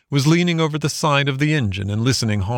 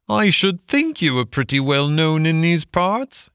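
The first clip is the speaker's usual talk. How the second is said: higher-pitched sarcastic clerk; mocking ticket clerk; 6 semitones higher than usual. A narrator's reading. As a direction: scoff at the passenger in a raised voice. Clerk mocks Toad.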